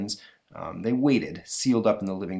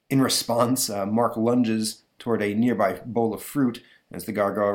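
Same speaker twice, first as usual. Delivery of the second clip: ordinary delivery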